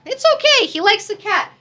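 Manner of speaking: lightly hammed-up placating father; dad character voice. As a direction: soothe the mom in a squeaky mock-dad pitch. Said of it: "the dad is like".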